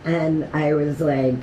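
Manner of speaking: ordinary delivery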